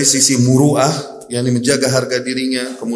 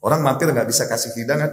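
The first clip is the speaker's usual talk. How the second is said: ordinary delivery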